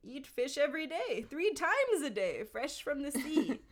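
high, theatrical creature glee; stagey, high-voiced daydreaming; Gollum, excited. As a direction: pitch it up like a boasting creature. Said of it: "a theatrical voice".

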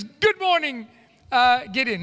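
bright, high greeting from a smiling angel; cheerful angel. Acted. Angel greets stressed-out Gideon, cheerful and high. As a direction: greet him with a lift, lightly voiced. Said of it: "He's cheerful".

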